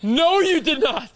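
high, loud and slow, floored by the story; no way, drawn out in shock; shocked disbelief. Real, not acted. Friend reacts to the mall lie with loud disbelief.

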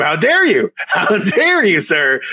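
play-offended, scolding a writer; theatrical fake indignation; mock outrage. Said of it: "I'm getting very upset".

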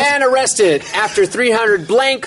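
slow headline read. Shown as a demonstration. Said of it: "reading the headline slowly".

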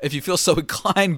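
plain line broken by a laugh. Real, not acted. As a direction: drop the announcer voice and chuckle. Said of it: "but whatever".

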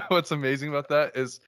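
words through laughter; laughing while talking. Real, not acted. Laughing after haiku.

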